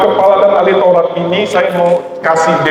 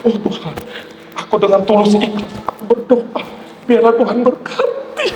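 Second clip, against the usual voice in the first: mock tearful prayer; 8 semitones higher than usual. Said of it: "Sampai nangis".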